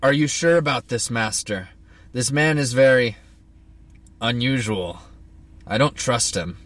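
lightly gruff henchman; a hint of rough servant, wary. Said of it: "I'll just go with gruff".

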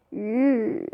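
"İyi" held low and long; the wrong "İyi". Shown as a demonstration. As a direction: say "İyi" as one low drawn-out sound. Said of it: "Bak öyle demeyeceksin".

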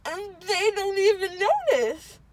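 tearful complaint; weepy and hurt; crying. Real, not acted. Drugged child after dental surgery.

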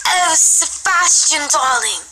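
high, drawn-out swoon; hammed-up cooing, stretched out; Grill impression. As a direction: gush slowly in a put-on lovesick voice. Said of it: "Let's do Grill".

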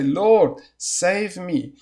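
crying out. Shown as a demonstration. Preacher leads viewers in crying out to the Lord. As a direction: Lord called out loud, save me plain. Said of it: "cry with me".

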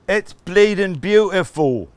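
slow, loud, high croon of a famous singer; hammed-up singer voice; singer impression. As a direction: drawl it like a famous crooner. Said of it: "my horrible singer impression"

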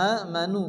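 আমানু opening on a long aa; drawn-out aa, then manu, in আমানু; long vowel stretch. Shown as a demonstration. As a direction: hold the first vowel of আমানু. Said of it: "একাধিক পরিমাণ টান দিয়ে".

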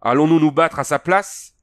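a warrior roaring his challenge at Conan; roared. A narrator's reading. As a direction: yell it in outraged defiance. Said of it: "rugit-il".

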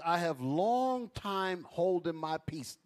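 slowed right down, each word weighed; slow emphatic reading. Shown as a demonstration. Preacher repeating the verse slowly to the congregation. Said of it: "God says".

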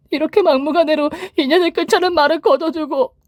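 careful pleading daughter. A narrator's reading. Daughter carefully soothing her angry father, high and pleading. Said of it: "조심스럽게 말을 건넸습니다".

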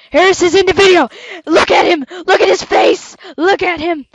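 shrieking at a friend's face on camera; excited yelling. Real, not acted. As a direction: point him out, thrilled. Friend appears in the video.

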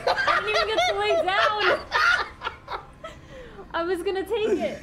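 talking through laughter; laughing. Real, not acted. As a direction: laugh it out in disbelief. Laughing at own death.

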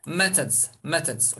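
"Methods" ending in a voiced z; final z sound. Shown as a demonstration. Teacher repeats the plural for learners, final z sound. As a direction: say "methods" with z, not s, at the end. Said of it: "Z, sonunda z".

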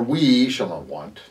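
"we" stretched as the plural alternative; stress on WE. Shown as a demonstration. Preacher showing how it could have read, stress on "we". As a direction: lean hard on "we", then let the rest follow. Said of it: "It could read".

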